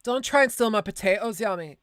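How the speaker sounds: put-on a rusty stab at an Irish accent; Irish accent attempt. Streamer dusts off her Irish accent to tease a friend. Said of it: "bring out my Irish accent".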